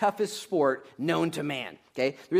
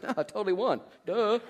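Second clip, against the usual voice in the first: mock indignant; 6 semitones higher than usual. Mock reply after a match.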